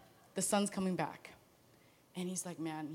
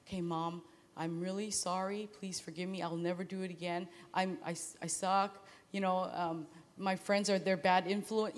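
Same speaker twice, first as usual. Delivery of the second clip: rehearsed apology; 3 semitones lower, 6 dB quieter than usual. Retold or imitated. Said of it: "the speech you do when you're in trouble".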